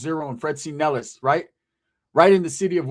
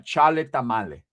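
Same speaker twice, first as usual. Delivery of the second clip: "tamale" given the emphasis; stress on tamale; 5 semitones lower than usual. Real, not acted. Vlogger rejecting the rumor, emphasis on "tamale". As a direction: lean on "tamale" after "chale". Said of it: "with an emphasis on the tamal".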